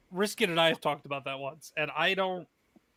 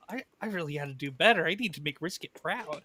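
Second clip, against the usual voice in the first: sighing whisper; 2 semitones lower, 6 dB quieter than usual. Retold or imitated. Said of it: "I was like".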